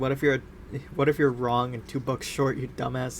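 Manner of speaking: plain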